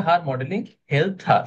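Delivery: "her modeling helped her" said very slowly, word by word; slow correct model. Shown as a demonstration. Teacher models the corrected sentence for Ilma, slow and deliberate. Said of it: "এক জায়গায় আমি একটা mistake আমার চোখে পড়ছে".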